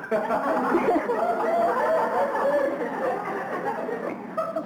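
a long high laugh. Real, not acted. Laughing at her own "No" to the husband. Laughing after telling the punchline.

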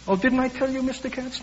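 put-on high frail old lady voice; lightly voiced elderly woman. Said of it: "a thin, frail voice".

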